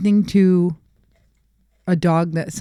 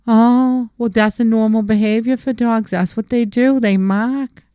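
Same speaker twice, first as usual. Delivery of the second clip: higher, airy lecturing voice; mock know-it-all bystander; 4 semitones higher, slower than usual. Bystanders excusing the peeing dog, smug higher mock voice. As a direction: imitate a smug onlooker explaining dogs. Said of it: "you'll have the people".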